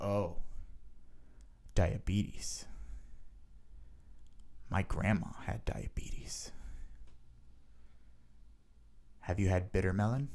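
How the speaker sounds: soft, confiding murmur with a whisper; secretive hush. Retold or imitated. Imitating the gas station clerk, soft and secretive. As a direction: share it like a secret. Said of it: "He said it, like, really softly".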